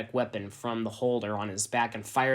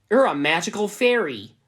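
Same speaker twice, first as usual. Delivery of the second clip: high, loud delighted cry; excited shout; 9 semitones higher, 10 dB louder than usual. Acted. Ebony greeting the naked elf, a high excited shout. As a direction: squeal it out thrilled.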